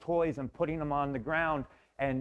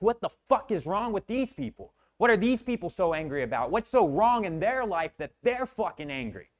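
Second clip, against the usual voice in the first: angry outburst; 5 semitones higher than usual. Retold or imitated. Man venting at people with easy lives, angry higher rant. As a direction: vent fury at the world. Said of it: "I was so angry".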